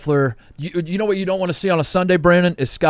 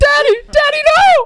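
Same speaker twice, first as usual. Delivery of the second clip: put-on tearful crying, very high and raised; 7 dB louder than usual. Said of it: "she's, like, crying".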